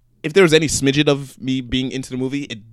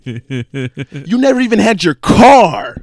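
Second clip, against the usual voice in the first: higher and louder, laughing through it; incredulous tough guy; 5 semitones higher, 7 dB louder, much slower than usual. Retold or imitated. Vin Diesel retold to Paul Walker, mock incredulous laughing. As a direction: scoff at him like he's insane. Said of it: "looks back at him like he's insane".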